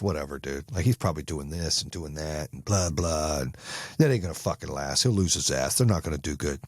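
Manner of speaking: low, dismissive grumbling; mock a hater writing off someone's success; jealous bad envy. Acting out bad envy of the buyer, dismissive. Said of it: "That's jealousy".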